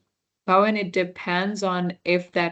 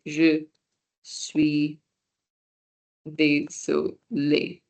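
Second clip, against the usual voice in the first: slow model phrase; much slower than usual. Shown as a demonstration. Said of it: "they would just say".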